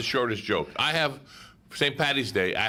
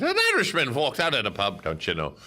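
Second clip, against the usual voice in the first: put-on a light, joking Irish accent; hammed-up Irish accent tagging on don't you know. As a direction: tell the pub line in a mock Irish lilt. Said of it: "you do it in your Irish accent".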